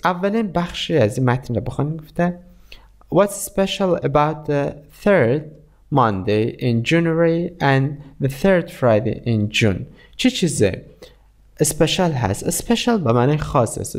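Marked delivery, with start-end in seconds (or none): 3.1-9.8 slow, measured English reading for learners; slow read-aloud. Shown as a demonstration. Teacher reading a lesson text aloud to students, slow and deliberate. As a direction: read the passage slowly, phrase by phrase, with pauses. Rereads the question slowly.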